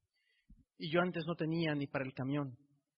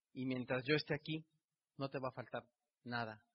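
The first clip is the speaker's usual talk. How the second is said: tearful gratitude; 3 semitones lower, 3 dB quieter than usual. Retold or imitated. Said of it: "yo con lágrimas en los ojos le dije".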